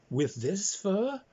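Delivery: slow, high, put-upon dog voice; fussy dog. Acted. Pampered dog balking at the swamp, slow and high. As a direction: drag it out like a pampered pet refusing.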